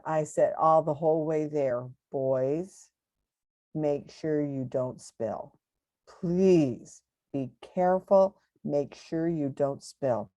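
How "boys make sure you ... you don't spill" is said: motherly warning. Retold or imitated. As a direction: gently warn the kids. Mother warning boys at restaurant.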